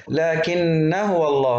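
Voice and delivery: slow chant, "laakinna" short into هو; wasl, alef dropped. Shown as a demonstration. Teacher showing the joined form, short ending on لكن. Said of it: "بشيل الألف".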